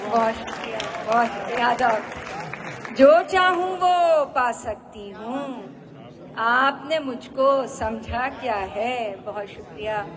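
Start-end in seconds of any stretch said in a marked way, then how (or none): 3.0-9.2 high sustained first line, easing into the second; poetry recitation. Acted. Poet repeating her couplet to applauding listeners, lifted poetry recitation. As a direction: declaim the couplet with a lifted opening.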